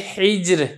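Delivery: हिज्र read slowly with a thin, light र. Shown as a demonstration. Teacher shows students a thin र in हिज्र. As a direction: carefully model हिज्र, keeping the र thin and light. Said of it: "रा को बरी करेंगे".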